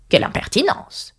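high, breathy outraged pudding; scandalized talking pudding; pudding exclaiming. A narrator's reading. The pudding protesting at being sliced, high and outraged. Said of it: "s'exclama le pudding".

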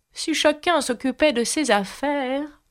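a hint of a raspy duchess; hoarse grumble. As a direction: grumble it under the breath. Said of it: "grommela la duchesse d'une voix rauque".

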